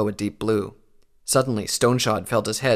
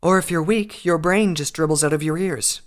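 gleeful threat; 7 semitones higher, 5 dB louder than usual. A narrator's reading. Unicorn gleefully threatens prisoner.

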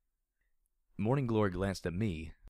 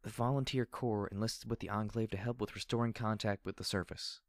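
shaky voice; 3 semitones higher than usual. Acted. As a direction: voice trembling. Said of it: "she said in a shaky voice".

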